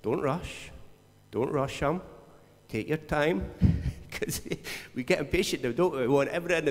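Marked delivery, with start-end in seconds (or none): 0.0-3.5 quiet, unhurried calming voice; slow him down gently; softer reassuring whisper of conscience; soft inner voice. Pretend. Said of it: "this voice is saying".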